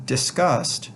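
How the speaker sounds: "disgust" with the second syllable stressed. Shown as a demonstration. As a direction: lean on GUST in "disgust". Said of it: "the accent is on the second syllable".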